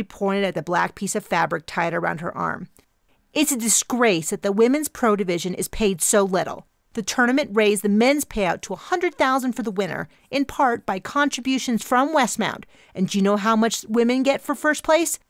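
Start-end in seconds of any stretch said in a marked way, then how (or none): 3.3-15.2 heated activist lecturing; indignant rant. Acted. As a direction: jab each fact at her. Pinky's angry rant.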